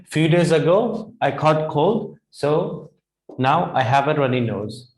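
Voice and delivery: now say it through in one go; example at normal pace. Shown as a demonstration. Teacher repeating the sentence in one flowing go. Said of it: "now let's make an example".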